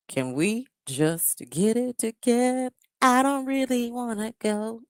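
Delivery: lightly voiced proper code-switched voice; a hint of a polished, proper man; the speaker's proper voice. Shown as a demonstration. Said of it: "speaking in my Nesto proper voice".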